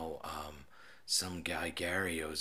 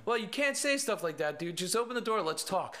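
calling out; 11 semitones higher than usual. Retold or imitated. Officer pleading through door.

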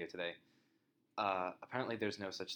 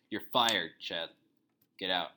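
louder, sharp dismissal; loud firing; 10 dB louder, slower than usual. Acted. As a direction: throw him out loudly. Boss firing Chad.

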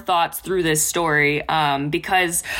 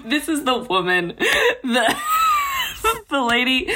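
higher, breaking up laughing; giggling restart; 9 semitones higher than usual. Real, not acted. Co-host introducing the pirate captain, giggling at her accent attempt.

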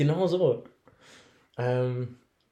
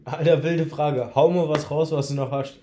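mock indignant outburst; 3 semitones higher, 8 dB louder than usual. Real, not acted. Mocking friend's request loudly.

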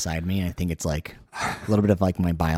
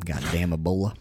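Southern accent; 3 dB quieter than usual. Real, not acted.

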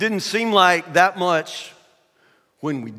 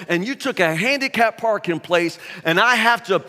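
imitated granny's indignant telling-off; scolding old lady; 3 semitones higher, 3 dB louder than usual. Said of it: "she continues to scream".

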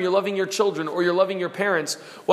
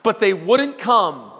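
retold crying; 4 semitones higher, 4 dB louder, slower than usual. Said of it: "he begins to cry and says".

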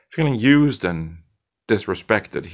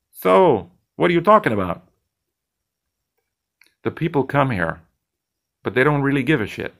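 higher, lively bartender voice, teasing; cocky bartender Zed; 6 semitones higher, faster than usual. Acted. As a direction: play the slick bartender poking at his colleague.

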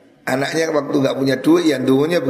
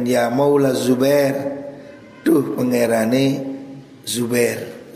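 kitab recitation; slower than usual. Acted. Preacher reading Abdullah's words from the kitab, chanting. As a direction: intone each gloss slowly, like a pesantren teacher.

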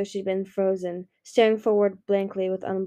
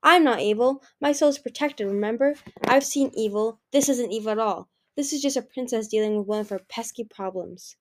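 defiant princess. Acted. Anemone defends herself, excited.

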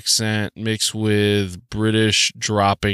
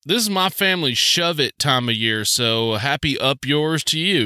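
higher-pitched Southern drawl; 4 semitones higher than usual. Real, not acted. Podcaster wishing listeners a crude holiday greeting, Southern accent. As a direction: slip into a folksy Southern accent. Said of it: "what makes that accent come out".

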